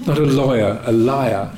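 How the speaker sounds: laughing mock Australian; put-on Aussie vowels through a laugh; jokey Australian imitation; bad Australian accent. Shown as a demonstration. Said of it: "My bad Australian accent".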